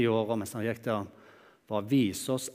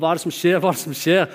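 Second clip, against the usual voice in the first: loud, higher, urgent repeated question; blind man calling out; 4 semitones higher, 5 dB louder, faster than usual. Acted. Blind beggar shouting to the passing crowd, loud and urgent. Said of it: "og han roper".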